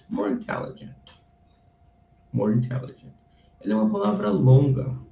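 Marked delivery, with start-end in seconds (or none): 0.1-3.1 whispered repeat. Shown as a demonstration. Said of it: "teacher repeats".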